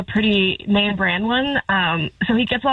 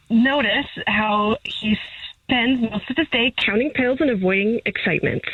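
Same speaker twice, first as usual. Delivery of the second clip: nature documentary narrator. Acted. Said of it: "sounding like a nature documentary narrator".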